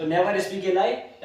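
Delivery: very slow, word by word; teacher dictating to the class; slow dictation. Shown as a demonstration. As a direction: dictate so the class can write it down. Teacher dictates sentence to students.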